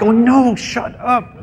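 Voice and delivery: very high mock squeal; shrieky put-on female protest; imitated panicking woman. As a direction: squeal it like she's mortified, hammed-up. Imitates panicking woman as he walks over.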